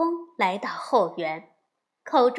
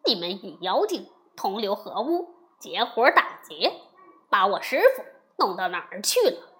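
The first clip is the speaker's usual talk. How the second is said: angry demand; 3 semitones lower than usual. Acted. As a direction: rush the accusation at the cowering gods. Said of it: "悟空怒问". (怒气冲冲地快速质问)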